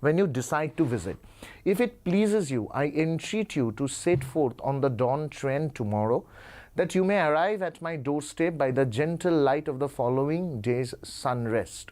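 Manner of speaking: put-on slow, formal read of an old-fashioned letter; slow, careful reading of a formal letter; reading aloud. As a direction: stretch out each phrase for students.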